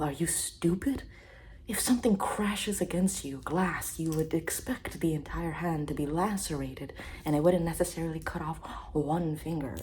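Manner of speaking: lightly put-on accent, smug and whispery; fake Johnny Depp impression. Comedian mocking a celebrity, smug fake accent.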